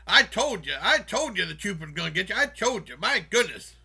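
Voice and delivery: mock exasperated scolding; emphatic retold reproach; I-told-you-so scolding. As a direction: imitate someone saying told-you-so, hitting each repeat. Retells man scolding I-told-you-so.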